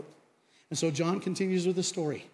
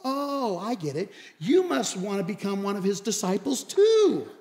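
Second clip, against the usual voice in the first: dawning realization. Retold or imitated. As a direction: act as if it just clicked. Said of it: "And then it dawns on him".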